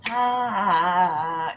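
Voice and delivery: mock laugh of a prankster brother; imitated gotcha laugh. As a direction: imitate a brother gloating over his joke. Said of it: "if he got you on a good joke, he'd go".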